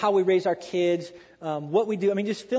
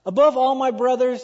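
louder, ringing preacher emphasis on Above; emphatic buildup; 4 semitones higher, 8 dB louder than usual. Shown as a demonstration. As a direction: proclaim it to the whole congregation. Repeated buildup.

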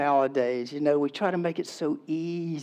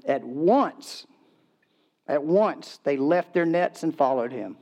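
raised, emphatic Bible reading; scripture reading; 3 semitones higher than usual. Acted. Pastor reading Matthew to the congregation, emphatic scripture reading. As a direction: read it out to the room, phrase by phrase. Reads the Bible passage aloud.

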